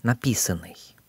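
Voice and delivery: написанный stressed on пи, the second syllable; написанный with unstressed сан after a stressed пи; stress shifted back. Shown as a demonstration. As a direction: lean on пи in написанный. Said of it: "stress will shift back one syllable".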